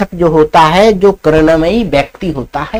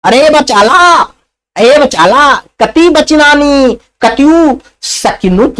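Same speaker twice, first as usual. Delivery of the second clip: annoyed lazy man; 5 semitones higher than usual. Acted. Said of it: "चौथा क्या बोलता है".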